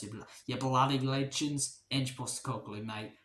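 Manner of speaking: jokey, rough attempt at an Australian accent. YouTuber thanking his viewers, mock Australian accent. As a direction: put on a light Aussie accent. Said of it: "mixing up the Australian and Geordie accent".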